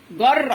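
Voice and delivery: جر closed on a rolled ر; teacher stressing the doubled ر in جر; doubled-letter demo. Shown as a demonstration. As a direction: sound out جر, holding the doubled ر. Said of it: "هناخد واحدة من دي عشان في شدة".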